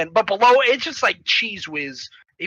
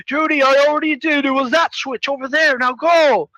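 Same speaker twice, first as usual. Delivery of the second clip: higher-pitched hurried reassurance; urgent order; 4 semitones higher than usual. Retold or imitated. Grandpa sending Judy to the exit, urgent higher voice. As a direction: urge him out the door.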